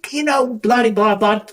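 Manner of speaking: very high mock female voice; exaggerated high-pitched whinge; imitated complaining woman. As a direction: mimic her moaning, sliding into blahs. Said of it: "I think that's how she talks".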